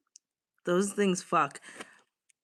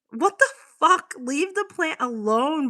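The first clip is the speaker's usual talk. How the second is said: shocked outburst; 6 semitones higher than usual. Real, not acted. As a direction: jolt up in disbelief. Shocked at chat message.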